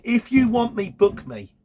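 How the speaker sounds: a driver venting at a shipper, half-mock angry; retold frustrated rant. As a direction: retell the telling-off with real irritation. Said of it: "this is really frustrating".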